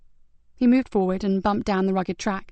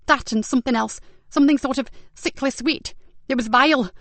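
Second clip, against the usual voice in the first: lightly raised voice of a shaken, disgusted woman; Zoe, shaken victim; 4 semitones higher than usual. Acted. Victim describing her attacker's smell to Ben, mildly disgusted. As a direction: recall the smell with a touch of revulsion.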